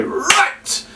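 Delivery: high, bright call for attention. Shown as a demonstration. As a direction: snap the room to attention. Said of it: "start the routine with a big clap and say".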